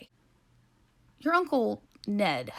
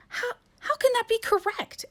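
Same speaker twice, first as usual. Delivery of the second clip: high, disbelieving cry; outraged. Acted. Nell outraged at losing.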